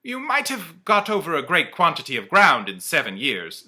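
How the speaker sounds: high, loud wondering question; lightly voiced Scrooge. Scrooge questions the ghost, high and wondering. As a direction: ask in disbelief.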